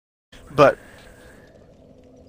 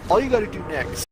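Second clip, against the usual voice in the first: condescending tutorial. Pretend. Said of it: "Let me know if you need me to explain that to you".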